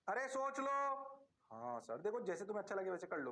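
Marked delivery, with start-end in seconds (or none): 1.5-2.0 low, soft mock student answer; teacher mimicking a student, lower and softer; student reply. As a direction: play a meek student saying yes sir. Teacher voices obedient students.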